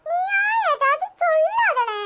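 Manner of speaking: slow, crying as she pleads; tearful plea. Acted. Sister begs her brother not to blame, crying. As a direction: beg him through tears.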